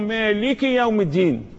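مالك with a short i after the kaaf; short kasra. Shown as a demonstration. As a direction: say the ك of مالك as ki, joined to يوم. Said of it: "مالك الكاف مكسورة".

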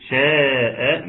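"شاء" with the alif held long before the hamza; connected madd. Shown as a demonstration. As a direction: stretch the vowel of "شاء", then stop on the hamza. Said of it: "مد متصل مقداره اربع حركات". (مد ألف "شاء" أربع حركات قبل الهمزة)

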